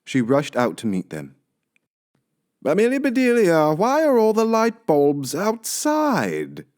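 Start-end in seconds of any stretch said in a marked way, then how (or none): 2.6-6.7 high, slow, baffled; Mister Rogers asking the maid, puzzled. Acted. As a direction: ask it bewildered. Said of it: "asked Mister Rogers".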